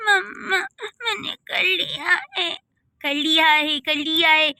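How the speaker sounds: put-on sobbing child's reply, voice breaking; tearful kid pleading with mom; crying child. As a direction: whimper it through tears. Scolded child answering mother.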